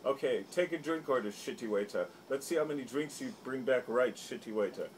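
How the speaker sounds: lightly voiced taunting action star; mild hammed-up sneer; mocking bully voice. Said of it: "He goes".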